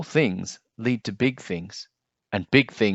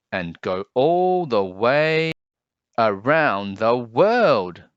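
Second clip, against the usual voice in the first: building wonder; 6 dB louder, much slower than usual. Acted. Kindness spreading round world.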